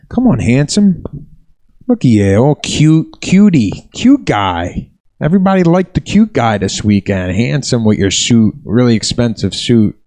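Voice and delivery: imitating a guy taking shots; mocking jabs. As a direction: needle him with mock compliments. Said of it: "taking shots at me".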